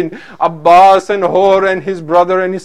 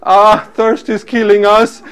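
drawn-out, louder plaintive wail; stretched, pleading lament; imitated crying children; 3 dB louder, slower than usual. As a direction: slowly cry it out like thirsty children. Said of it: "he heard little children crying".

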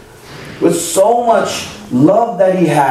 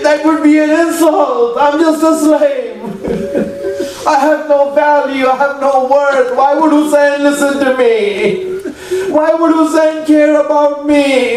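pitched up, pleading self-reproach; ashamed slave; 5 semitones higher than usual. Acted. Dying slave too ashamed to call his master, pitched-up pleading. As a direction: plead your worthlessness, voice climbing high.

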